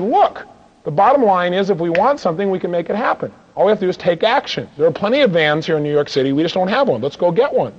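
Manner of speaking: insistent push. Retold or imitated. To partners saying no vans exist, firm insistent pep talk. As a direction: refuse to accept no.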